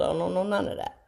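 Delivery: hushed self-mocking admission; whispered aside. Real, not acted. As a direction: drop it to a sheepish whisper.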